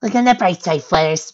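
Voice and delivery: high, perky encouragement; optimistic. A narrator's reading. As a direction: cheer her up brightly, pitched high. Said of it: "Pinkie Pie said optimistically".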